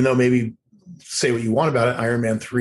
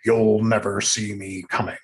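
Ben Kingsley impression; 2 semitones lower than usual. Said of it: "will do an impersonation of him saying".

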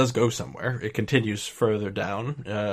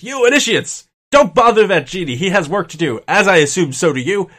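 loud, raised-pitch order from an irritated overseer; commanding rebuke; 7 semitones higher, 10 dB louder than usual. Acted. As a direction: shout down at the initiates. Human on wyvern orders party off.

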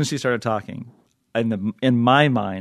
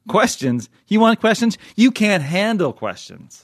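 high, loud mock courtroom yell; mock movie shout; 10 semitones higher, 5 dB louder, slower than usual. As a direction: ham up a furious movie line, then slow it down. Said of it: "put a question up and said".

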